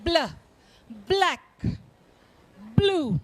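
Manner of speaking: "Bl" alone, then "black", "blue", spaced out; blend demonstration. Shown as a demonstration. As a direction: show the "bl" onset in each word. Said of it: "Can you hear both the sounds?".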